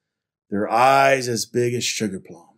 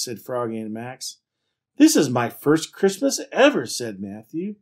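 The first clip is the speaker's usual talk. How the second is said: animated picture-book reading; story narration; 3 semitones higher, 6 dB louder than usual. A narrator's reading. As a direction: read it out to children with lively emphasis. Reads picture book aloud.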